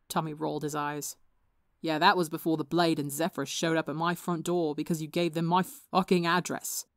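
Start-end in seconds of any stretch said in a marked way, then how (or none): 1.8-6.9 snapping. Acted. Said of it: "he snapped".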